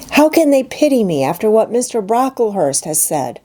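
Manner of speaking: a hurt schoolgirl begging to understand; anguished young girl asking her friend; young Jane, pleading. Acted. Jane speaks in dialogue.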